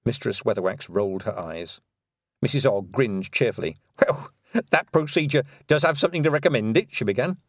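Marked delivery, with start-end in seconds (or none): 4.0-6.9 put-on cheerful old woman voice; hearty old witch. Nanny Ogg voice.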